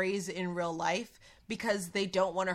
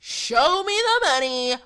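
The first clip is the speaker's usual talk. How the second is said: impatient demand; 2 semitones higher, 9 dB louder, slower than usual. Pretend. Impatient Cien voiced.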